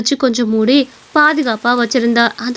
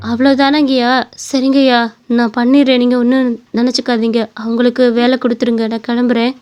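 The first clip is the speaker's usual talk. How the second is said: subdued, slightly lowered voice; resigned job seeker. Acted. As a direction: give up the job politely, fading out. Job seeker gives up politely. (ஏமாற்றத்தை அடக்கிய தாழ்ந்த குரல்)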